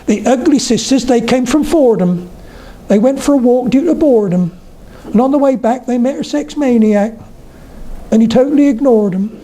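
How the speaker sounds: put-on high-pitched Oxfordshire country accent; lilting Vale of Oxford verse voice; Pam Ayres. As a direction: recite the limerick high in a rhotic rural accent. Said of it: "so you must resonate just there".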